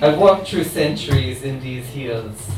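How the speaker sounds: a light hint of a New Orleans accent. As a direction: voice the immortal voodoo queen with a faint New Orleans accent. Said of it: "try and do it in her accent".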